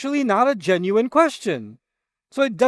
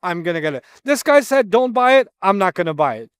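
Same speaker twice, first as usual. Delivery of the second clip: naive follower; 3 semitones higher, 4 dB louder than usual. Retold or imitated. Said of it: "You're like".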